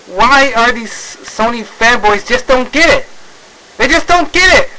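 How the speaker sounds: high-pitched, baffled complaint; real frustration, voice rising high; exasperated. Real, not acted. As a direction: let the pitch climb in sheer exasperation. Exasperated rant at Sony fanboys.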